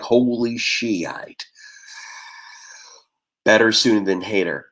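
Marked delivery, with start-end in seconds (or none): 0.0-1.5 a slow whispered "Holy Shiite"; hushed awe. Retold or imitated. People learning his heritage, slow awed whisper. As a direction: breathe it out slowly like an awed gasp. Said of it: "they're like".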